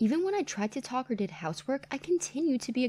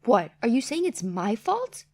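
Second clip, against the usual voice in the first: angry retort; 6 dB louder than usual. Acted. Mother-in-law snapping back.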